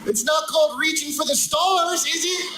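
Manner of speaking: high, shouted rhetorical jab; indignant punchline. Acted. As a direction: shout it like it's obvious. Comic punchline rant.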